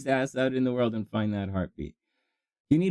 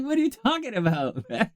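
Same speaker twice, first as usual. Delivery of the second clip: laughing disbelief; 6 semitones higher than usual. Retold or imitated. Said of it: "I'm like".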